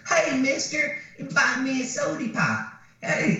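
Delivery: put-on squeaky teen begging sweetly; silly girly voice. Girlfriend asks stranger for soda pop, high girly whine.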